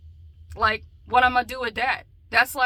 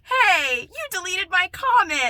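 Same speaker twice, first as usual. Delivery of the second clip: retold sketch voice; 8 semitones higher, 7 dB louder, slower than usual. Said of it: "it was like".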